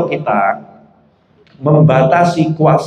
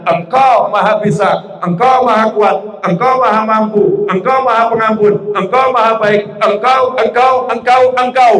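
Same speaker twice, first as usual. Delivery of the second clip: rising praise; 4 semitones higher than usual. Acted. Acted praise building up.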